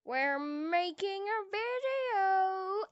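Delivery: drawn-out, rising video intro; showy intro. Pretend. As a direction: stretch it out like a showman opening.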